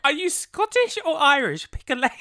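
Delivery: high, loud, through giggles; laughing mock outrage. Host retells heckling the TV, laughing mock outrage. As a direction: heckle the bad accent, cracking up.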